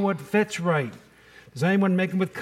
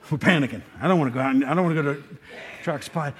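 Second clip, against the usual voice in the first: laughing; 3 semitones lower, much faster than usual. Real, not acted.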